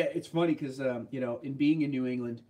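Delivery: ordinary delivery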